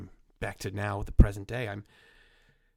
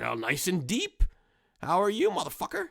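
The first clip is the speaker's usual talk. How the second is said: whisper; 8 semitones higher, 5 dB louder than usual. Pretend. Hairline as rude figure.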